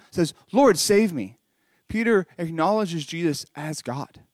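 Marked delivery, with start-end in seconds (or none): 0.5-1.4 mild, louder retold cry for help. Peter sinking in the water, mild acted cry. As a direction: call out for rescue, lightly acted. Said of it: "And he cries out".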